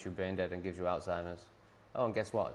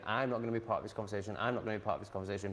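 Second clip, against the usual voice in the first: mock dad; much faster than usual. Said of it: "his way of saying".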